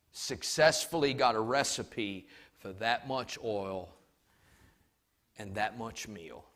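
low, soft, fading to a whisper; despairing widow. Retold or imitated. Widow telling the prophet she will die, soft and sinking. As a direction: confess it hopelessly, sinking to nothing. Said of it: "said to him".

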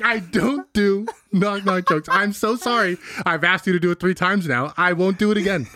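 exaggerated imitation of a touchy refusal; hammed-up indignant retelling; mock mad. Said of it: "you're so mad".

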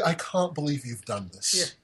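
lightly imitating a British guy; understated mock-British complaint; British accent. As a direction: quote it in a mild British accent. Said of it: "Your British accent is the best".

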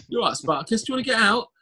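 high squeaky kitten voice; cat impression. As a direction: voice it like a little cat. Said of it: "That's my impression of a cat".

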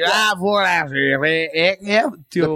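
muddled attempt at a Scottish accent; dubious Scottish accent. Shown as a demonstration. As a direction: attempt Scottish and miss, comically. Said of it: "That was Scottish, I think".

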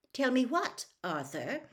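pointed question, high then dropping; controlled menace; dangerous voice. A narrator's reading. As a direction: ask it as a veiled warning. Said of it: "dangerous sort of voice".

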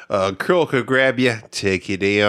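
joking put-on Australian voice; Australian accent. Co-host carrying on the bit, playful Australian accent. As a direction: keep up the mock Australian accent. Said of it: "Do your Australian voice".

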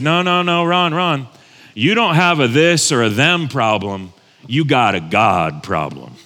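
lightly imitated Mississippi Southern counselor, dropping low at the end; straight-talking Southern accent, sinking in pitch. Counselor corrects the pastor bluntly, mild Southern accent. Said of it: "had this deep Mississippi Southern accent".

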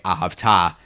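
ahavta with accent on final TA; stress on last syllable. Shown as a demonstration. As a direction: lean on the "ta" of "ahavta". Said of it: "on the last syllable".

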